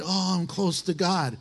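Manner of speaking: drooping, moaned holiness; mock lifeless piety. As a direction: sound half-dead while claiming to be holy.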